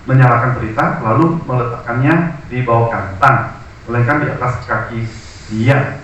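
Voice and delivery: measured, solemn Bible reading aloud; scripture reading. Acted. Pastor reads Matthew to the congregation, solemn reading.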